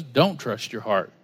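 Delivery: Don't set low and slow; slow, weighty Don't trust your heart; firm Bible warning. Retold or imitated. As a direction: lean on Don't, calm and firm. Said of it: "The Bible says".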